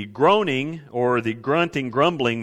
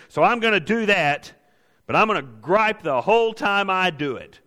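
higher, mock-pious griping; a believer obeying through clenched resentment, pitched up; grudging complainer; 5 semitones higher than usual. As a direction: sound dutiful while clearly resenting it. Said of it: "but you say".

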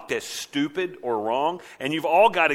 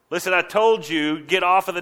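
louder, slightly raised-pitch telling-off; stern scolding; 4 semitones higher, 5 dB louder than usual. Acted. Adult ordering a child off the table, scolding. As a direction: lay down the rule firmly.

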